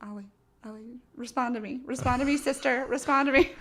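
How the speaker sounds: building plea to a frozen FaceTime; pleading with frozen screen. Retold or imitated. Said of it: "I'm like".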